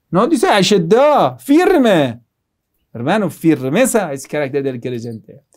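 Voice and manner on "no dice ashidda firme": "Ashidda" and "firme" punched out on a raised pitch; raised, forceful stress on "firme"; emphatic firmness. Real, not acted. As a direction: hit "firme" hard, correcting the listener. Rebuts soft advice with emphatic firmness.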